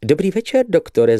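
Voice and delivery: a lightly high chirping lady; chirped greeting. Acted. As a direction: chirp it like a coquette. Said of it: "zašveholila dekoltáž".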